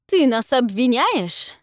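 slow, loud menacing challenge. A narrator's reading. Centaur snarling at accusation.

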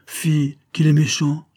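high-pitched reproach; indignant scolding. A narrator's reading. Émilie scolding the lieutenant as he leaves, indignant.

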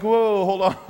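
high, loud alarmed halt; startled whoa. Retold or imitated. Hearing he must preach, startled high whoa. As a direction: throw up your hands, wait a second. Reacting to being told preach.

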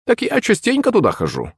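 high crone grumble; grumbling old witch. Acted. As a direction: mutter it like a hag. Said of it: "пробурчала старуха".

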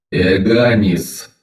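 slow grinding clanging iron voice; metallic voice. Acted. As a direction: clang the name out slowly. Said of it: "Металлический голос скрежещет и гулко лязгает".

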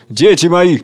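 a lightly voiced commanding king; king calling his children; King Hunger. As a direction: greet them grandly.

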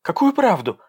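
high, loud shriek. Acted. Dasha shrieking at Egor, pushing him away. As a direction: screech it at him. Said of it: "взвизгнула девушка".

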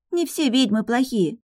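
put-on high child voice, a touch sulky; little girl. A narrator's reading. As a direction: defend witches like a pouting girl. Daughter speaks. (высокий детский голос)

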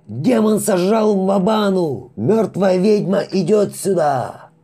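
high, loud, slow terrified howl; piercing scream. Acted. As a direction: wail the alarm into the radio. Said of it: "и по ушам ударил вопль".

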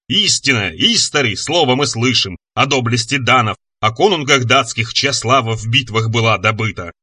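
measured, solemn verse chant; monster reciting epic. Acted. Monster proves it knows Beowulf, reciting solemnly. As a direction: intone it as heroic saga.

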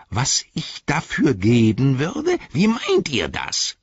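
a cunning orc playing dumb; greedy orc. A narrator's reading. Orc questions the hobbits, slow and sly.

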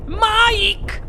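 very high, drawn-out screech of a name; shrieking mother. A narrator's reading. Mother calls her runaway son, high shriek. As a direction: shriek after your child in alarm. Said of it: "strillò la signora T V".

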